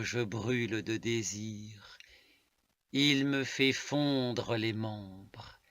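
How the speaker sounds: measured poetic reading, falling at line ends; poem recitation. Acted. Reading a love poem to listeners, measured recitation. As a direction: recite it in deliberate, spaced phrases.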